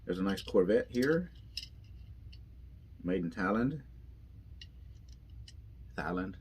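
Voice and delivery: drowsy, half-asleep voice; barely awake, sleepy words; nodding off. Real, not acted. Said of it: "I am literally half asleep".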